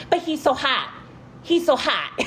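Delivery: high swooning fan voice. Retold or imitated. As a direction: gush like a smitten fan. Mimicking fans swooning over Tyler.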